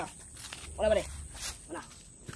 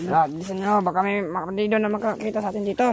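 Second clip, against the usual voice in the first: urgent; 3 semitones higher, 5 dB louder than usual. Acted. Urging group to hurry.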